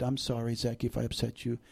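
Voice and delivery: soft, understated comforting; tender apology. Retold or imitated. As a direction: gently console an upset child. Dad retells consoling his crying son.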